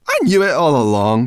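loud, high, cross; spitting it out. A narrator's reading. Sorrel snapping back at Ben, spitting it out. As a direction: spit the words out crossly. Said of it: "she spat".

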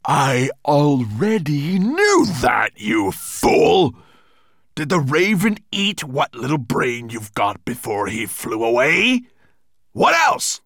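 loud, scornful monster bellow; spitting anger. A narrator's reading. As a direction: berate the stupid servant at full volume. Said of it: "spat Nettlebrand".

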